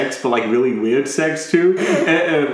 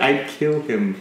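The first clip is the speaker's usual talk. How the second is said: flat; 3 dB quieter than usual. Retold or imitated. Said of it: "It was flat out like".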